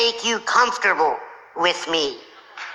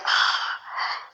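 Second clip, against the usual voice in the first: exasperated sigh; 7 dB quieter than usual. Retold or imitated. Friend's exasperated sigh acted out.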